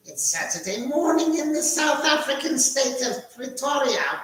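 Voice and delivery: a hint of South African; South African accent. Host greeting his mate in mock South African accent. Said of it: "a little bit of an accent from South Africa".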